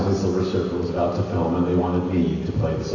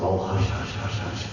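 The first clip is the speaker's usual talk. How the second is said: secretive hush; 5 dB quieter than usual. Retold or imitated. Secretive makeup shop.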